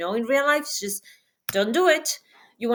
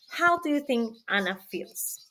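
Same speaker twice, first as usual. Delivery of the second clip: whispered question. Shown as a demonstration. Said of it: "but I want you to answer".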